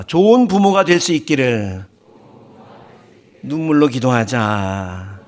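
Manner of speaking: measured line for the crowd to echo; call to repeat. Shown as a demonstration. Preacher has the congregation repeat a prayer motto, drawn-out call. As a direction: lead the congregation in a drawn-out slogan. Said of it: "한번 따라합시다".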